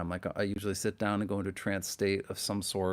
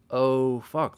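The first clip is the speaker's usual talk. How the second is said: higher, drawn-out awed reaction; retold amazement; 4 semitones higher, 5 dB louder than usual. Retelling a late-night drive when that song came on, amazed. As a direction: let the awe hit you as you retell it. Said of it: "I was kinda blown away".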